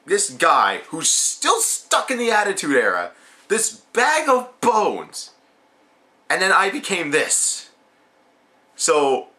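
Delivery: mock bitter speech, some slow stressed lines; lightly voiced Stardust spitting blame at his dad; retold angry promo to his father; angry rant. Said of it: "he just says".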